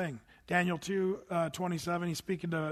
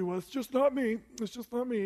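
false humility; 5 semitones higher than usual. Retold or imitated. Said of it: "we as Christians can be kinda goofy".

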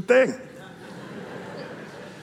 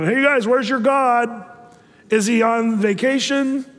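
mocking taunt; 4 semitones higher than usual. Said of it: "he's making fun of them".

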